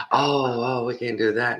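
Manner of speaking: very high, quick refusal; salesman refusing. Retold or imitated. Salesman turning down the half price, very high. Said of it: "salesman refusing".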